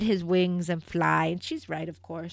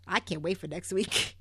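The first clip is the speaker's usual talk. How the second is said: ordinary talk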